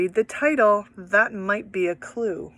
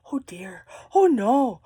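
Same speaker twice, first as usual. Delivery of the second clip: scared robot. Shown as a demonstration. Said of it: "The robot was so scared".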